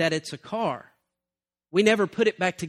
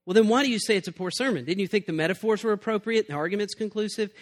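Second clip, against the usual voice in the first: higher-pitched mock young preacher challenging; mildly indignant protest; 5 semitones higher than usual. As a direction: press the old minister, lightly acted affront. Young preacher challenges old divine's verdict.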